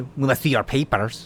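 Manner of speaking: terrible, over-the-top, exaggerated German accent. Joking about demands to see your papers: bad exaggerated German accent. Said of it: "That was that was the worst German accent".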